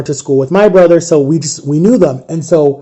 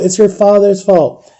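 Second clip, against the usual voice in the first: slower emotional blame; 3 semitones higher, slower than usual. Retold or imitated. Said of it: "got all emotional".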